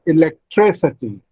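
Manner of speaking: "electricity" said e-lec-TRI-city; stress on third syllable. Shown as a demonstration. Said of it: "tree receives the primary stress".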